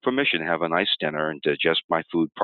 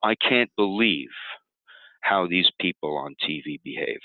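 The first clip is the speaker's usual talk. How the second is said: a mildly overdone upset sigh; dramatic disturbance. Shown as a demonstration. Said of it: "more dramatic about my disturbance".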